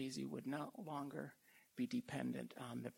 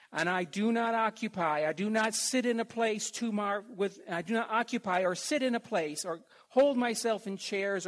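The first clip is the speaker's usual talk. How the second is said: preaching scripture; 3 semitones higher, 9 dB louder than usual. Acted. Preacher reads the psalm to his flock, building loud. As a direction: let the verse swell into a cry.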